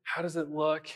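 lightly voiced child seeking dad's approval; bright-eyed, hopeful retold question; excited little boy. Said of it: "running to his dad in excitement".

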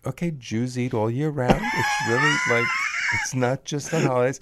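half-shouted mock exasperation, rising as it goes; exasperated retort. Retelling his answer to her in Kohn's, mock exasperated shout. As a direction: fire it back like it's obvious. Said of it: "And I was like".

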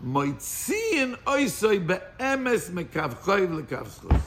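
reading the Hebrew phrase slowly; slow reading of the text. Shown as a demonstration. Teacher reading the new wording to his class, slowly. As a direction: lay out each word of the source. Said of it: "the Rebbe changes the Lashon".

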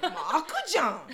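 scolding mom. Retold or imitated. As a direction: nag him like an annoyed mom. Mom scolds late son.

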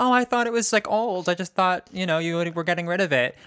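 a hint of feigned innocence, easing down; imitating innocent excuse. Grandmother to family after taking clothes, mildly innocent.

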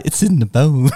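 words spilling out between laughs; giggling repeat of the joke; laughing through it. Real, not acted. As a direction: say it while cracking up. Friends joking about bone marrow.

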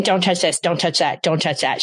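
a tired mom listing "don't touch"; nagging don'ts. Retold or imitated. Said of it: "instead of saying".

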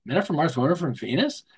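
title read again with a curious rising question; catching the title and wondering; puzzled read. Retold or imitated. Shopper noticing the title, puzzled rising question. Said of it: "What's that all about?".

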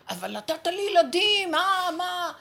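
a hint of a whiny parent complaining; mock protesting parent. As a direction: play the indignant parent objecting, lightly.

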